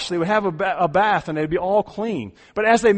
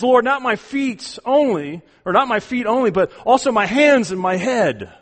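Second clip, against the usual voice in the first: eager overcorrection; 5 semitones higher, 5 dB louder than usual. Acted. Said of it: "He swings to the other side of the pendulum".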